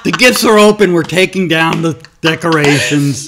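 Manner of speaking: laughing. Real, not acted. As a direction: laugh through a mock plan. Mock Scrooge plan, laughing.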